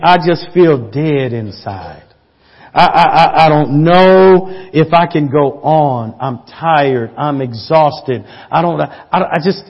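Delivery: weary despair. Retold or imitated. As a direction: sound drained and ready to give up. Voicing a weary, despairing listener.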